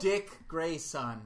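slow, drawn-out name, lightly lordly; Game of Thrones character. Acted. Host names a Robin candidate, as Game of Thrones character. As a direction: say it like a fantasy lord's title. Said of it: "make him sound like a Game of Thrones character".

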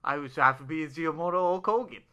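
mushy words round gum; chewing gum. Real, not acted. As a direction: talk with gum in your mouth. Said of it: "I had gum in my mouth that time".

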